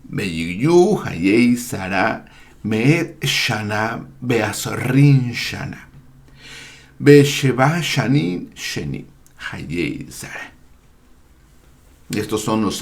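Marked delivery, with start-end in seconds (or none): 0.1-10.5 slow, deliberate scripture reading; formal Hebrew reading. Real, not acted. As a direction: read the Hebrew verse out word by word.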